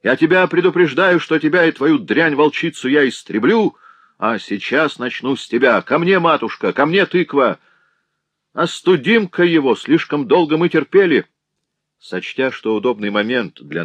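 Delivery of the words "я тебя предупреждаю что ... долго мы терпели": much higher, loud furious ranting; raging yell. A narrator's reading. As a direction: scream for the family to join in. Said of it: "вопил он".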